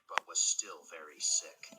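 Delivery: ordinary delivery, nothing marked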